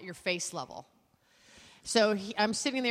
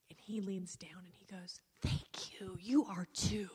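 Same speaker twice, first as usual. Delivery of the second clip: whisper; 2 semitones lower, 7 dB quieter than usual. Retold or imitated. Retelling the whispered plane exchange.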